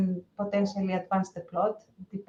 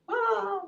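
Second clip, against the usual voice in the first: high exclamation; 12 semitones higher than usual. Acted. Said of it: "in a Greek accent".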